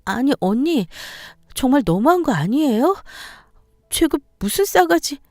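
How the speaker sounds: acted disbelief at an in-law; indignant protest. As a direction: push back, stung by the insult. Daughter-in-law protests the insult.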